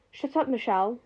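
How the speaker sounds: plain reading voice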